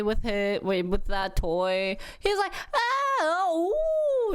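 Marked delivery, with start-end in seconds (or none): 2.7-4.3 put-on high-pitched baby cooing; imitated happy baby coos. Mom imitating her baby playing with a toy, happy coos. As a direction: coo high like a contented baby. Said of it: "He's, like, happy".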